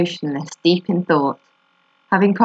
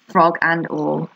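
slow emphasis; slower than usual. Acted. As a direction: draw out frog and all as an echo.

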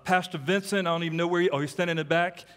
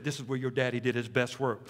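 lightly voiced, low and softer recruiter; recruiter's pitch; 6 semitones lower, 4 dB quieter than usual. Recruiters showing Sammy his father's field, lightly imitated pitch.

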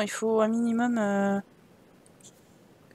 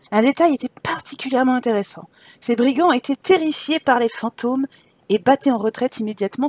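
animated, articulate storyteller; story narration. Acted. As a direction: read it like an adventure tale. Reads game story aloud. (narration de récit d'aventure)

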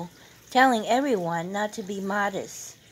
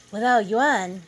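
surprised question; 3 semitones higher, 7 dB louder than usual. A narrator's reading. Daughter-in-law overhears and disagrees.

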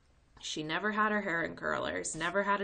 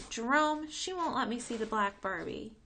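put-on tattling little girl; 6 semitones higher, 4 dB louder than usual. Girl complaining to brother.

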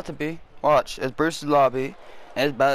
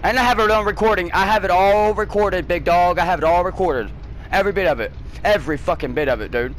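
higher and much louder, hammering every accusation; furious yelling; 4 semitones higher, 4 dB louder than usual. Real, not acted. Gamer tearing into rival Bruce over the mic, furious shouting. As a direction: blast him with it, word by word.

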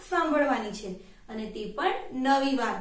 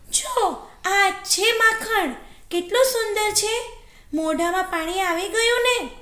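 high-pitched jackal character voice; little storybook trickster luring the victim; enticing jackal; 9 semitones higher than usual. Acted. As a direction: show off the prize, high and tempting. Jackal lures wolf with the reflection.

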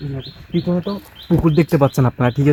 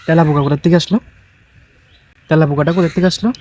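startled; 2 semitones higher, 6 dB louder than usual. Real, not acted. Startled by a cockroach.

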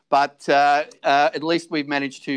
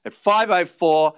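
auctioneer calling. Acted.

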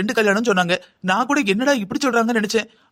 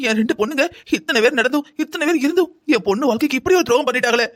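aggrieved wail, rising higher at the end; tearful lament; 4 semitones higher than usual. Acted. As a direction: lament the betrayal of your daughter. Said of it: "எவ்வளவு நேரம் தான் அழுவீங்க?". (அழுது புலம்பும் குரல்)

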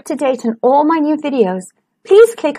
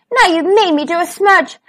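cross Little Wolf; 6 semitones higher than usual. Acted. Little Wolf complains about smudge.

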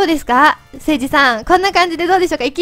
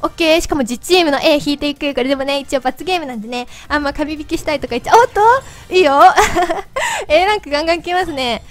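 chipmunk voice from helium; 3 dB louder than usual. Real, not acted. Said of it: "自分で聞いてると声よくわかんない". (ヘリウムガスの甲高い声)

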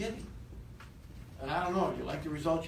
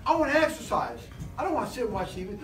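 louder, higher, eager inner voice; fired-up inner voice; 4 semitones higher, 4 dB louder than usual. Acted. Speaker voicing the fire in the belly to the room, eager and louder. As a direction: sound pumped to go run. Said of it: "'Cause it's saying".

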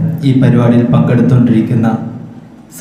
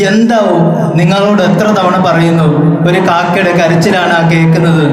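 a retold son's irritated outburst, pitched higher on the first word; mock angry shout; 3 semitones higher than usual. Grown son loses patience with old father, mild mock yell. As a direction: snap back impatiently, with no real volume. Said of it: "shout ചെയ്ത് ദേഷ്യപ്പെട്ടുകൊണ്ട്".

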